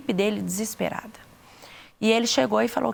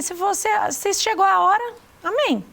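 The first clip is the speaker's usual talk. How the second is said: surrendered prayer; 9 semitones higher than usual. Retold or imitated. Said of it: "eu falei".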